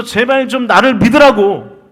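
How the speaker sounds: preacher voicing Jesus's desperate appeal; imitated pleading cry. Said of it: "소리치면서".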